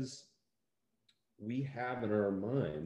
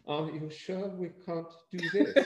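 higher, pleading self-imitation; mock pleading; 8 semitones higher, 5 dB louder than usual. Actor retelling his plea to the producers, mock pleading. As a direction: beg like a hopeful actor. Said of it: "And it's like".

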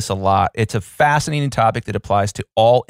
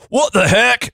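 higher, louder zany cartoon line; crazy cartoon voice; 11 semitones higher, 4 dB louder than usual. Host dreaming of a Disney role, in a higher, louder zany cartoon voice. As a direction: throw it like an animated sidekick. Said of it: "That was his crazy voice".

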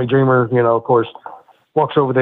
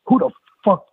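imitated yelling; 6 semitones higher than usual. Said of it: "'cause he was yelling at me".

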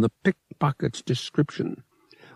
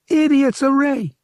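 a higher, put-on gambler's voice, cordial; smooth gambler; 7 dB louder than usual. Lyle inviting Han to the sabacc table, cordial. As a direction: wave him over with easy charm. Lyle boasts his winning hand.

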